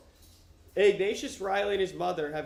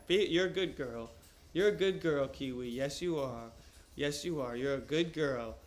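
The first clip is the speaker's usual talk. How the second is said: tender dog praise; 2 semitones lower than usual. Real, not acted.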